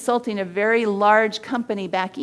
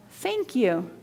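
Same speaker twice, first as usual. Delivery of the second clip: heartfelt thank you. Shown as a demonstration. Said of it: "add the words and the voice tone".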